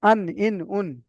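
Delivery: আন, ইন, উন one by one, ringing final n; articulation drill. Shown as a demonstration. Teacher models the nun, separate syllables আন, ইন, উন ending in held n. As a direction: drill আন, ইন, উন with tongue tip on the upper palate. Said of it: "উপরের তালুর সঙ্গে লাগবে".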